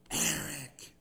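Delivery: deep, drawn-out spooky call of a name; eerie crow call. Retold or imitated. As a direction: moan the name like a ghostly voice in the dark. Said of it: "calling out ... this terrifying voice".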